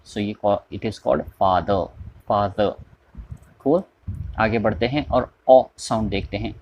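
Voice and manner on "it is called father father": slow "father", no r sound; British father. Shown as a demonstration. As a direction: drop the r in father. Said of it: "British English के लिहाज से र का sound pronounce नहीं होता". (British अंदाज़ में "father", र के बिना)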